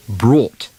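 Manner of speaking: "Brought" with an open aw vowel; "Brought" with a broad aw sound; demo of aw vowel. Shown as a demonstration. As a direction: lean on the aw in "Brought". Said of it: "Now let's try it".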